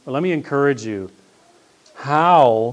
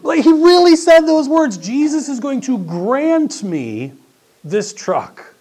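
higher and louder, slowing, laughing through it; amused disbelief; 10 dB louder, slower than usual. Real, not acted. Pastor to congregation recalling the student, laughing disbelief. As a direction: relish how absurd it was.

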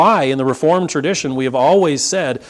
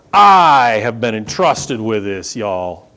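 mock boastful; 5 semitones lower, slower than usual. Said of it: "you could read that the wrong way".

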